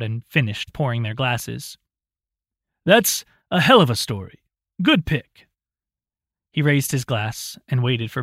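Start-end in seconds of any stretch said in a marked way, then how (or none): 2.8-5.5 put-on amused old man. A narrator's reading. Roland voiced.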